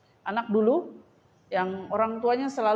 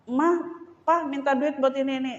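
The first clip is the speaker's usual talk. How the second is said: put-on child begging parents; 5 semitones higher than usual.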